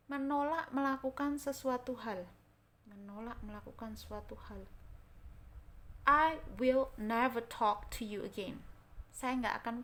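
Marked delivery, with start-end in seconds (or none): 6.1-8.6 slow, louder, firm angry refusal. Shown as a demonstration. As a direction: say it slowly and loudly, like someone you're angry at. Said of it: "Kamu itu lagi marah-marah". (menolak dengan marah, pelan dan lebih keras)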